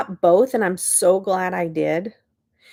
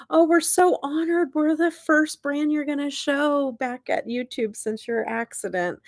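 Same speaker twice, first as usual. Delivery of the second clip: quoting the brand; 5 semitones higher than usual. Retold or imitated. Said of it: "They said".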